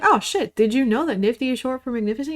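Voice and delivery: high, fast surprised oh shit; excited discovery. Retold or imitated. Showing a better way to share a fact, excited and high. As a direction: gush it like a fun new fact. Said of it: "You could just be like".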